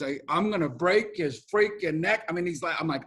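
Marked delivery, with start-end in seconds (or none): 0.3-2.3 imitated New York tough talk on the phone; New York accent. New Yorker on the phone on a bus, New York accent. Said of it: "he's talking like this".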